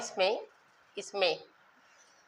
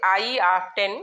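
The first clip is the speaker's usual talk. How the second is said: slow, spaced-out dictation; teacher dictating an example; 4 dB louder, much slower than usual. Shown as a demonstration. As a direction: say it slowly so the class can write it down. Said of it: "एक example देख लीजिए".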